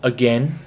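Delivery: "Again" said as uh-GEN; second A dropped. Shown as a demonstration. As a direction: rhyme the end of "Again" with "ten". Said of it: "as if the other A doesn't exist".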